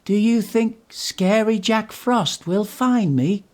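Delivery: high, loud and slow, worried; a small scared engine asking; worried Percy asks his driver; Percy's voice, worried. A narrator's reading.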